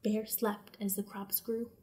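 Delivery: slow, soft whisper; hushed whisper. A narrator's reading. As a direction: whisper as if not to wake him. Hushed narration of sleep.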